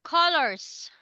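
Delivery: colors stressed clearly for repeating; model pronunciation. Shown as a demonstration. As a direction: say "colors" clearly, KUL-ers. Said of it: "can you say".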